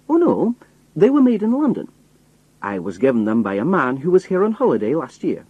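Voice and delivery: a cheerful Scottish roadman explaining; Scottish accent. Acted. Disguised narrator answers the spy in a Scottish accent. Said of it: "strong Scottish accent".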